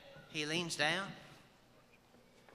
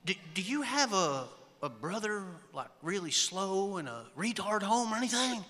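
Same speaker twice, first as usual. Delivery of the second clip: slightly raised, halting and slow at first; mock incredulous question; 3 semitones higher than usual. Friend quizzing buddy's new wife about a brother, halting mock bafflement. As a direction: ask haltingly, as if truly baffled.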